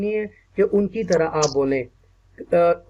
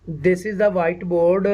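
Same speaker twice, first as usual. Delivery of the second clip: slow model sentence; much slower than usual. Shown as a demonstration. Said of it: "आप देखें ना".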